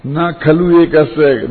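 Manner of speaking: slow, measured recital of a verse; formal, unhurried quoting of scripture; Sanskrit scripture recitation. Real, not acted. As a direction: recite it slowly, drawing out the syllables. Recites the Sanskrit line again.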